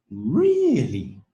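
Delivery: Really? high then falling; rise and fall. Shown as a demonstration. Teacher repeating the rise fall model. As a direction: lift then drop Really?. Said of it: "Rise and fall".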